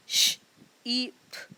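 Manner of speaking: each letter sound said apart. Shown as a demonstration. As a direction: split the word into its separate sounds. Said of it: "जैसे कि शीप".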